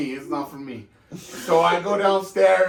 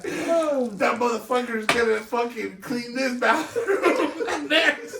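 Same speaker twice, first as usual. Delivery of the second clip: laughing through quote; 5 semitones higher, slower than usual. Real, not acted. Dad's retort, teller laughing.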